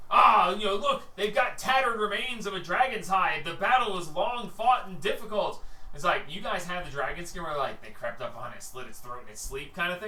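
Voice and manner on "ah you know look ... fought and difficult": imagined onlooker. Retold or imitated. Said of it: "you're like".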